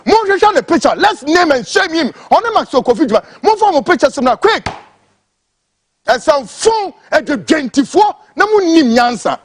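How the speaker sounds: high-pitched angry rant; name and shame them in real anger. Real, not acted. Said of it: "Pardon me for this because I'm angry".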